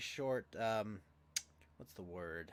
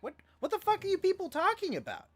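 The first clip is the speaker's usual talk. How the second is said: higher, exasperated retold protest; indignant outburst; 12 semitones higher than usual. Boy protesting to the accusing parents, indignant and high. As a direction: throw it at the room in disbelief.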